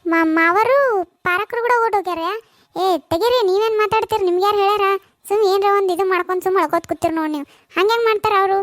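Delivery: put-on high-pitched, indignant young in-law voice; disbelieving daughter-in-law. Daughter-in-law defends father-in-law to mother-in-law, disbelieving. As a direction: protest in a high voice, refusing to believe it.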